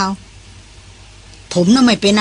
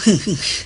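short laugh; 3 semitones lower, 4 dB quieter than usual. A narrator's reading. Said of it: "รพินหัวเราะ".

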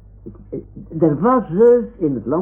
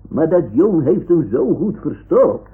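excited; 7 semitones higher, 6 dB louder than usual. Acted. Opgewonden na het roepen.

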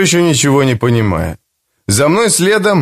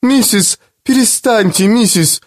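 coaxing; 7 semitones higher than usual. A narrator's reading. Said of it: "стала уговаривать её".

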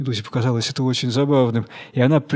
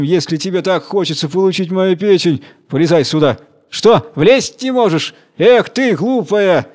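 higher, louder scornful jeering from up in the tree; mocking taunt; 4 semitones higher, 4 dB louder than usual. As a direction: gloat over the fooled jellyfish. Monkey taunts jellyfish from tree.

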